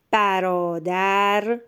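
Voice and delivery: slow, evenly read برادر; measured first reading. Shown as a demonstration. Teacher first reads the sentence to a pupil, slow and clear.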